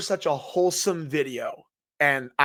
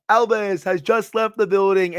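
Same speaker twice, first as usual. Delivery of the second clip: higher, put-on announcer-style quote; imitated catchphrase, pitched up; quoting a catchphrase; 5 semitones higher, 4 dB louder than usual. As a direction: pull off the famous line with showy flair. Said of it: "he was gonna pull off the".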